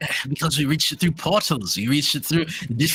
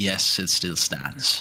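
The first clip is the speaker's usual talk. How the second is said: a little quieter, much lower, slower; 9 semitones lower, 3 dB quieter than usual. Narrating a scene, voicing a character who looks over and answers, a little quieter. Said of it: "speaks with a little bit of a quieter voice".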